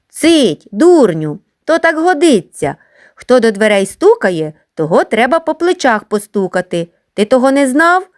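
high teasing schoolboy yell; mock shouting. Schoolboys hush and tease the crying newcomer, high. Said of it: "крикнули хлопці".

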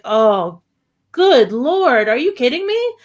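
a touch of scandalized shock; mild mock disbelief. Realizing the slur in the movie, mock scandalized shock.

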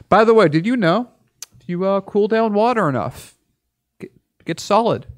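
high mock-excited reveal; sarcastic revelation. Real, not acted. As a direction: announce the obvious like news.

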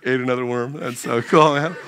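God watching the mole, low and amused; laid-back God. Pretend. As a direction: chuckle it like an impressed surfer. God admiring the mole quietly.

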